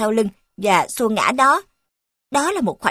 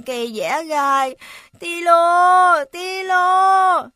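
running out of air; 4 semitones higher, slower than usual. Acted. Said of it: "với giọng thều thào, nó kêu lên lần nữa".

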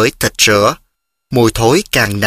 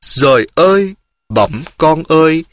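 put-on the old mother cries out her son's name, raised and higher; mother's startled cry to her returning son, raised; 4 semitones higher than usual. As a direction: call out to a son you thought was dead. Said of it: "Mẹ kêu".

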